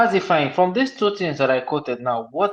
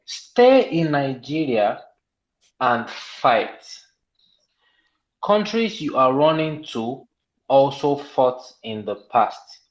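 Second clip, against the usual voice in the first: slow, deliberate read-out quote; 3 semitones lower, much slower than usual. Retold or imitated. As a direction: read the quote out slowly, phrase by phrase. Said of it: "and I quote him".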